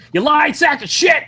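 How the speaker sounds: yelled high in mock outrage; mock outraged shout. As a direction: shout it with fake fury. Scolding friend over chat excuse.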